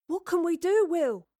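high, loud call across a room; anxious boy calling out. A narrator's reading. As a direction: call out to Will from the far corner. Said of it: "he called across the room".

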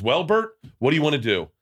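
lightly voiced fussy mother; mom voice. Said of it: "this is my impression of my mom".

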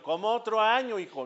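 mild mock disbelief from a dad; incredulous father. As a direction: question it in lightly acted surprise. Acted father questions son's wish.

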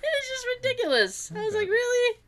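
squeaky, very high laughing voice; helpless laughter. Real, not acted. Woman cracking up over her hot ticket story, helpless laughter. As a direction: barely get it out through laughter. Breaking up over own joke.

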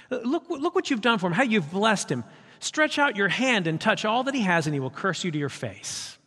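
sneering, high mocking accuser; mocking Satan. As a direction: taunt God like a sly accuser. Satan voiced mocking God.

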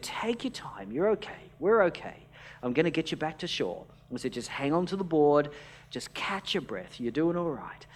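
calm reassuring voice. Retold or imitated. Rescuer soothing a drowning man, softly and calmly. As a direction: hush him gently so he stops fighting the water. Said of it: "speak in a very calm voice to him".

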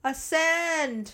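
high, drawn-out command to a ghost; mock ghost-hunter call. Mock ghost hunter commanding spirits, drawn-out call. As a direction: stretch it out like a summons. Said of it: "it's me just yelling at ghosts".

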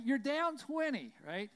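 shouted high, slow and drawn out; taunting the angry parent about the score, slow and loud. Retold or imitated. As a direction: stretch it out to rub it in.

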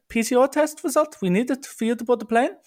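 high, prim mock gate-agent voice. Gate agent quizzing a clueless passenger, high mock official voice.

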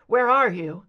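breathless, urgent question; gasping for air in panic; breathless fright. Acted. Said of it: "his voice breathless".

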